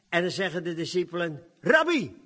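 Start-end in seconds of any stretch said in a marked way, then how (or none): 1.6-2.2 eager call. Acted. Disciples urging Jesus to eat.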